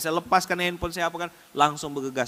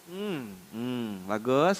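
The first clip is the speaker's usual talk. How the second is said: smiling while pinching; 5 semitones lower, 6 dB quieter, much slower than usual. Retold or imitated. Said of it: "bibirnya senyum, tangannya nyubit".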